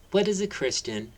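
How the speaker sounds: put-on high curious child question; innocent query. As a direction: ask with wide-eyed wonder. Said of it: "queried innocently".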